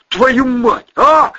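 high, loud exasperated curse; cursing. Acted. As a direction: swear in alarm. Swearing in alarm.

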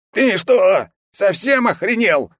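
high, loud, slow outraged yell; old guard losing his temper; furious shout. A narrator's reading. Old guard explodes in rage. (яростный крик)

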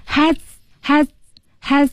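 "Has" with a lightly released final z; don't push the z in "has"; lightly handled ending. Shown as a demonstration. Teacher showing learners a trick, "has" with a light z. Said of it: "要轻轻处理".

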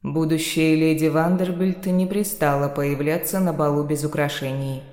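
muffled voice from inside a box. Acted. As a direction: speak muffled, as if through a box lid. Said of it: "приглушённый голос некроманта".

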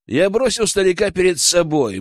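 ordinary delivery

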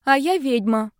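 put-on small scared girl insisting; frightened girl. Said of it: "сообщила испуганная девочка".

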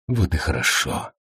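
quiet low approval; hushed low contentment; low, soft, satisfied. A narrator's reading. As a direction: say it low and pleased. Character reply, low soft.

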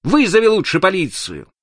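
high, emphatic shouted order; calling out. A narrator's reading. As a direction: call out firmly, drawing out the words. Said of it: "Ник крикнул ему".

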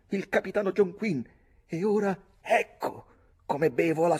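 high, loud mocking accusation; defiant shouting. A narrator's reading. Young narrator denounces the captain in a mock toast, shouting. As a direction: cry out the insult to the whole table.

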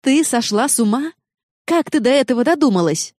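can't believe what she just heard; shocked disbelief. Acted. Jenna to Noa after the text, shocked and high.

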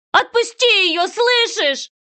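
high, loud pleading shout; mother screaming at the kidnapper, high and loud; desperate scream. Acted. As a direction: scream it across the pier.

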